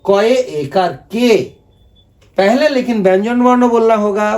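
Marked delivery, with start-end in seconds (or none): 0.0-1.6 कॉय एकार के drawn out slowly; teacher stretching कॉय एकार के for the class; slow spelling-out. Shown as a demonstration. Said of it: "कोई भी अक्षर जैसे क के मात्रा ए हो गया".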